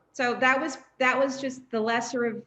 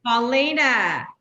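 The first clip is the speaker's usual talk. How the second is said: slow, louder, drawn-out name in mock reproach; mock scolding; 7 dB louder, slower than usual. Real, not acted. Chiding Paulina for her cruel vote, slow and reproachful.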